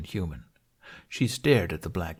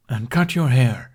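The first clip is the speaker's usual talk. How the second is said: louder, slow command; firm order; 4 semitones higher, 8 dB louder than usual. Acted. Toothless ordering Hiccup, loud and slow. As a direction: lay down the law.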